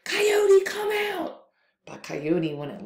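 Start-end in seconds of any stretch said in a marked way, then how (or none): 0.0-1.4 monster hollering. Acted. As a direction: yell for him to get out.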